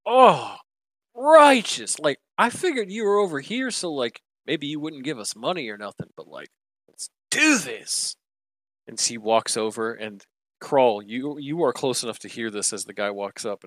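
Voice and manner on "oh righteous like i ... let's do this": high, loud laid-back dude voice; surfer dude. Acted. Wind fund guy thanking Manta, high surfer dude. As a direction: go full stoked surfer bro. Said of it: "The guy's like".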